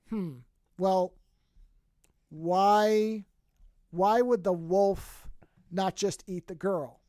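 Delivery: slow, halting pondering with long pauses; mock puzzlement. Aliens puzzling over the children's story, slow mock bafflement. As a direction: imitate baffled listeners, drawing each word out.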